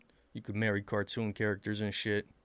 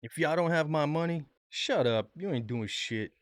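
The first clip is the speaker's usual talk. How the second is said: mocking tough girl; 5 semitones higher than usual. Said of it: "She acting so tough".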